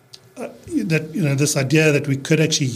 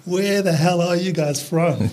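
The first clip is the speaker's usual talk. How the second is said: lightly acted bewilderment, drawn out and higher; mock bafflement; 4 semitones higher than usual. Imitating locals puzzled by the family's mixed accents, mock bafflement. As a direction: imitate baffled people with amusement. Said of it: "used to get completely confused".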